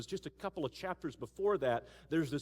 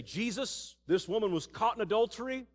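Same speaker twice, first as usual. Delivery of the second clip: accusing religious leaders; 5 semitones higher, 4 dB louder than usual. Acted. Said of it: "And they say".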